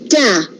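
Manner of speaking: "ta" said short and weak like an unstressed syllable. Shown as a demonstration. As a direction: drop the voice on "ta" as the weak beat. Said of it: "The first one is unstressed".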